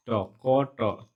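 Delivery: क and ट said as isolated short sounds; each of ट and क on its own, with gaps; separated sounds. Shown as a demonstration. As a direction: sound out ट, क, ट one at a time. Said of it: "ट पे आ रहा है".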